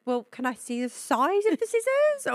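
playing the suspicious guard, lightly; imitating the security man.

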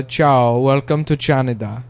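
Canada said as "CHAN-a-da", echoing ciao; Italian-Canadian greeting. Acted. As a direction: start Canada with a ch sound. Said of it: "a, Italian Canada".

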